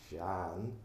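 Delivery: Shan with a broad "a", like "shahn"; a man teaching how his Irish name Shan should sound; Irish name said right. Shown as a demonstration. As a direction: say Shan as the owner says it, broad vowel. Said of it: "So you pronounce the vowel broad".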